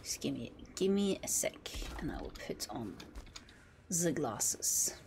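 soft devoted whisper. Acted. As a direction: whisper it low and loyal.

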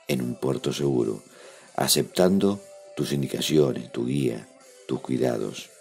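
heartfelt prayer. Acted. Leads a spoken prayer.

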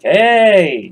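high loud squirrel yell; high loud critter cheer; squirrel shout. Acted. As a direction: shout hey like a cartoon squirrel. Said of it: "they're all like".

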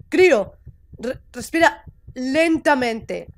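slow, measured reassurance; calming coaching. Acted. Figure coaches the panicking character to breathe, calm and slow. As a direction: guide the breath slowly, keeping the voice down.

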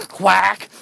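lightly voiced mock quacks; duck imitation. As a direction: separate quacks, as if talking duck. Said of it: "I'll talk in your native language".

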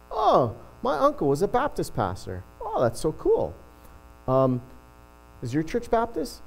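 light imitation of a Newfoundland accent; Newfie accent. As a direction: play a chatty Newfie car seller, lightly. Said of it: "a bit of a Newfie accent".

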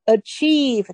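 achieve said slowly, each sound clear; teacher modeling achieve; slow careful pronunciation. Shown as a demonstration. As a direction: spell out achieve slowly for students. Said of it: "Achieve这个字念achieve".

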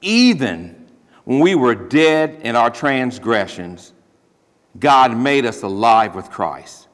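slow reading, Even stressed. Shown as a demonstration. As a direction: read slowly, weighting the word Even. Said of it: "It's putting emphasis on".

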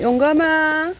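called out loud and high across the yard; calling out. Real, not acted. Calling the cat Yonggam over to eat, loud and high. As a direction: call the cat to come and eat.

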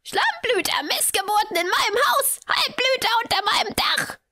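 put-on very high screeching old woman; piercing, outraged hag shriek; shrill old lady. A narrator's reading. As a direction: screech abuse through the whole house. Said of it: "Die schrille Stimme der alten Dame".

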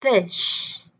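word stretched with a long final sh; slow demonstration. Shown as a demonstration. Teacher models the word for learners, slow and stretched. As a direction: take it slowly, lingering on the ending. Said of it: "hai lần chậm hơn".

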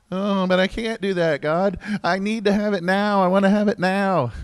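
put-on high, pleading whine like a child; whiny voice. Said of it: "You like my whiny voice?".

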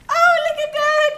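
high, bright delight. Real, not acted. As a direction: gush over the paw print. Cub's paw print lands.

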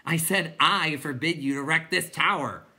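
half-fuming shout. A narrator's reading. Bastian forbidding the clowns, exasperated shout. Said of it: "half fuming".

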